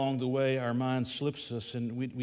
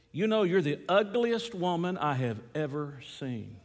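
lightly voiced parrot, a bit higher; squawking parrot; 4 semitones higher than usual. Parrot insulting a woman in the pet store, lightly squawked. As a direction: mildly squawk it, leaning on the insult. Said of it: "that parrot squawked and then said".

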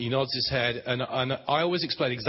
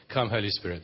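calm; 4 semitones lower than usual. Shown as a demonstration. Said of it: "That's enough".

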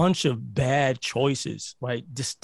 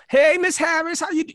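greeting pitched much higher and louder; polite high voice; 13 semitones higher, 4 dB louder than usual. Retold or imitated. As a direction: sweeten it up for the elderly neighbour. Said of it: "Your voice change goes up a couple of octaves".

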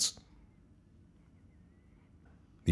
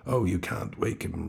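grave. Acted. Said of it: "returned the police officer gravely".

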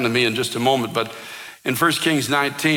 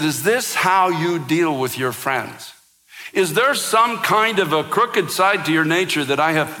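retold angry cry; 3 semitones higher than usual. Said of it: "I literally screamed at God".

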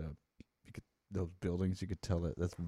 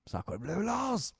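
Pepe Le Pew; 11 semitones higher, slower than usual. Retold or imitated. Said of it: "Pepe Le Pew was always saying that".

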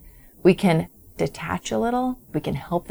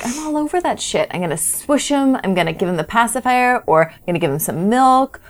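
lightly voiced eager parent, higher; 4 semitones higher than usual. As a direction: rush in like a keen parent soothing a baby. Parent rushing to a crying baby.

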